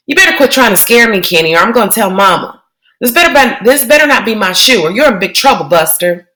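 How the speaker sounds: bossy little sister; kid-sister threat. Acted. Joey threatens to tell Mama.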